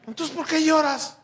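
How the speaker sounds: high, loud baffled plea; exasperated newlywed; exasperated question. Retold or imitated. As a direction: ask the crying wife why, at a loss. Husband asking crying wife.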